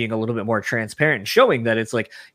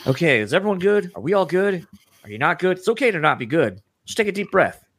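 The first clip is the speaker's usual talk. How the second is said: imitating a soothing host; 6 semitones higher than usual. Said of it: "he was just like".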